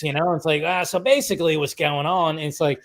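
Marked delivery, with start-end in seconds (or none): 0.7-2.4 put-on casual Aussie-accented assistant; Australian accent. AI helper explaining things, imitated Australian accent. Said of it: "in an Australian voice".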